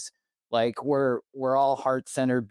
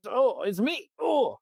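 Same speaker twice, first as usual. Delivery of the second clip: touched realization; 12 semitones higher, slower than usual. Retold or imitated.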